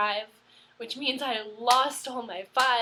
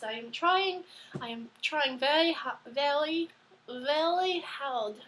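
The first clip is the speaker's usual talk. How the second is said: British accent slipping. Shown as a demonstration. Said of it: "Going into French now".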